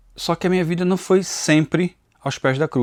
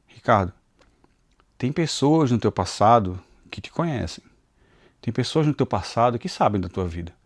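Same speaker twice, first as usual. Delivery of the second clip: imagined accusing voice; 5 semitones lower, 4 dB quieter than usual. Retold or imitated. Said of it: "Mas veio uma outra que era".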